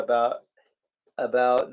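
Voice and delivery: "about" with a plain "ow", not "oo"; ordinary "ow" in "about"; Manitoba about. Shown as a demonstration. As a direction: say "about" with an open "ow" vowel. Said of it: "we don't say that in Manitoba".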